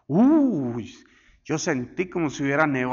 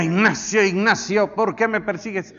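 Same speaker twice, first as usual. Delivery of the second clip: a loud calling voice of God, lightly done; 3 semitones higher, 3 dB louder than usual. Acted. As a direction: call the name like God, fading into the question. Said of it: "Y que le diga". (una voz de Dios suave, poco actuada)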